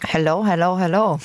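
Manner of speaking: talking with a full mouth. Real, not acted. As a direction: speak through a mouthful of pretzel. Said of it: "Einmal mit vollem Mund". (mit vollem Mund gesprochen)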